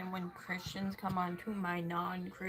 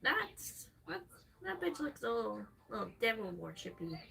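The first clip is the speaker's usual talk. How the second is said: mock judgmental Christian. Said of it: "You looked at me, went".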